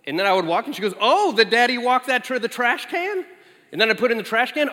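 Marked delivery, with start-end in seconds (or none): 1.0-3.2 put-on a light childlike commentator voice, rising; mock announcer toddler. Daughter narrating dad's every move like a commentator. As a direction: play a tiny sports announcer. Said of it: "like having a sports announcer".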